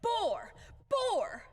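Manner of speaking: high, loud, repeated shout; shouted insult. Acted. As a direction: hurl the word at him.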